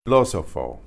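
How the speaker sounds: "Filósofo" with stress on the second o; Spanish word demo. Shown as a demonstration. Teacher models the word before spelling it. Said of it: "F I L O with an accent".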